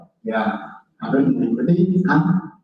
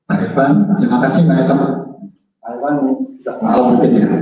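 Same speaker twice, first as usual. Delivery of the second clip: digital echo; 3 dB louder, much faster than usual. Real, not acted. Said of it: "Maaf, suaranya menggema terus".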